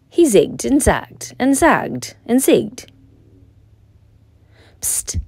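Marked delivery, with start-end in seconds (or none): 4.8-5.2 soft hissed psst to get attention; breathy secret signal; whispered psst. Acted. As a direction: Horse signals Turkey with a hushed psst. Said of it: "whispered Horse".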